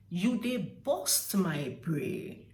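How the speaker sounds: slow, drawn-out "you dey burst my brain"; slow exasperated demonstration. Shown as a demonstration. Explaining the Warri phrase, slow and drawn out. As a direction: drag out each word of the phrase.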